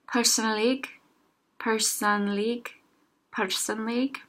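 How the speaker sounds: personlig said slowly and carefully; slow practice. Shown as a demonstration. Teacher repeating personlig slowly for learners to copy. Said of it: "I'll say them again slower".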